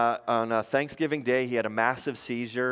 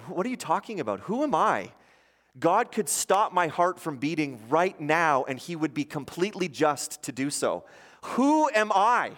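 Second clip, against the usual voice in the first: indignant pastor; 5 semitones higher than usual. Retold or imitated. Sick pastor rebuking visitors who call him too valuable. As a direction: push back in disbelief. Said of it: "he's like".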